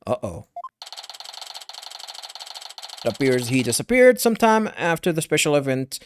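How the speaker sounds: measured news bulletin reading. Acted. Newscaster reporting a missing wrestler, news read.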